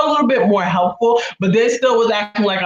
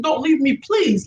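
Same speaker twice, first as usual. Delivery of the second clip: high-pitched retold plea; re-enacted anxious begging; pleading; 6 semitones higher, slower than usual. Retold repeated plea to sister.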